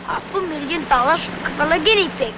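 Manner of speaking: imitated German accent. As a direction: quote it in a put-on German accent. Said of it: "with his German accent".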